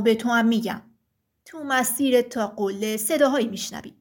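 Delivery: low, heavy giant voice; thick-voiced stone giant. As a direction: speak as a solemn rock giant. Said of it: "غول سنگی با صدای کلفت گفت". (صدای کلفت و بم غول سنگی)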